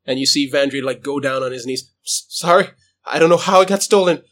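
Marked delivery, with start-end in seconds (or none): 2.0-4.2 stammering, higher-pitched apology; acted desperate promising; frightened begging. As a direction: plead for your life, tripping over words. Character begs on his knees.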